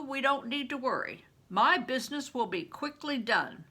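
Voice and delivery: lightly voiced big man, steady and sure; calm him like a protective older friend; Bear's voice. Bear's voice, gruff companion.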